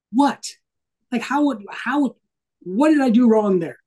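high-pitched, incredulous "what?"; re-enacted stunned disbelief; retold bewilderment. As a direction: protest your innocence, baffled. Baffled reply after being torn into.

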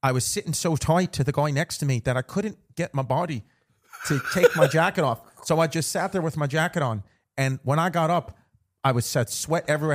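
storytelling in a playful Irish brogue; put-on Irish accent. Host telling co-host a flight story, Irish accent. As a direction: keep the mock Irish lilt going.

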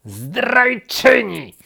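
loud, high, drawn-out accusation; long indignant yell; outraged cry. A narrator's reading. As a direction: hurl it after a traitor. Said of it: "zawołał królik".

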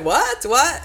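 mock shock. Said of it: "he was like".

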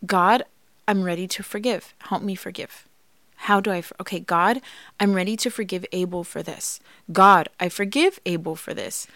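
soft, earnest prayer to God; quiet prayer. Shown as a demonstration. Wife demonstrating her forgiveness prayer, softly. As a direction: pray it gently, halting. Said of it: "And I would say things like".

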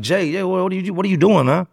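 high-pitched, flustered stammer; imitating a bewildered man protesting to someone he knows; alarmed protest. Victim protests to his robber.

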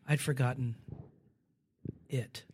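whispered, fading out; a low hush like a secret; hushed confession. Retold or imitated. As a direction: let the last word die away.

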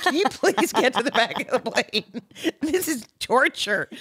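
high put-on toddler whine; mock whiny toddler. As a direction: whine like a spoiled kid on a plane. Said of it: "you're like".

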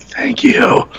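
a light, high thank-you in someone else's voice; imitating a grateful Kevin. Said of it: "and Kevin was like".

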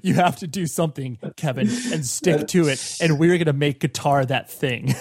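mock-stern parent; lightly acted parent laying down the law; parent putting foot down. Host plays parents out of options, mock-firm. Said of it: "ultimately putting their foot down".

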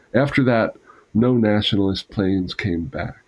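measured storyteller's reading with phrased pauses; memoir narration. A narrator's reading. Reader sharing Claire's Shanghai memoir with an audience, measured narration. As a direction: read a written wartime account aloud. Reads memoir passage aloud.

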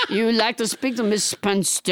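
hammed-up French accent, explaining; French Trump. French Trump explains a translation to the host, French accent. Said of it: "Can I talk to Paula".

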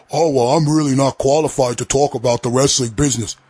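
lightly voiced sneering impression of a pundit; mocking Beck quote. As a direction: mimic him with a hint of smug dismissal. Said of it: "he basically says".

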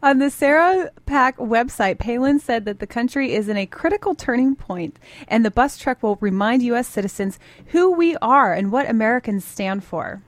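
projected, measured radio news delivery; light newsreader cadence; news read. Real, not acted. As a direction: read it as a straight news story. Reads the news script.

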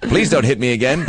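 canned talking doll line; pull string toy. Pretend. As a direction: sound like a cheap talking doll. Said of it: "With all her catchphrases".

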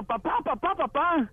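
high little mock yell for dad; boy calling out. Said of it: "y va gritando". (niño llamando a su papá, agudo)

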